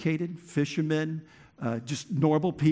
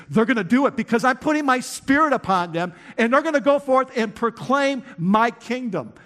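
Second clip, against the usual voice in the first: booming voice of God; 6 semitones higher, 6 dB louder than usual. Acted. God's answer voiced in sermon.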